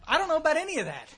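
high, loud declaration, slowing hard on the last sentence; emphatic rebuttal. Acted. Mock rebuttal to meeting quoters.

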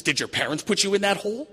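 hammed-up psychiatrist, high and loud; comic therapist query, pitched right up; psychiatrist's probing question. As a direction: climb to a high, incredulous question.

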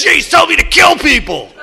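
high, loud, breath-heavy spooky voice; spooky growl. Retold or imitated. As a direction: hiss it out like a haunted man. Andy in back seat.

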